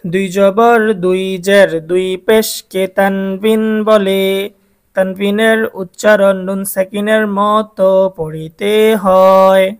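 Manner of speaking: slow, drawn-out rule recitation; measured chant-like teaching delivery; lesson recitation. Shown as a demonstration. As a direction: recite the rule steadily for pupils to repeat. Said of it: "আমরা আবার প্রথম থেকে বলি".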